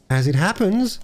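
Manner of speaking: put-on high-pitched, huffy little girl's comeback; exasperated triumph. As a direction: score the point, exasperated. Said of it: "in a tone of exasperated triumph".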